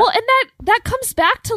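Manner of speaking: fighting back tears as she starts; choked up. Real, not acted. Friend in book club, close to crying. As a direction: voice catching with tears. Getting choked up over books.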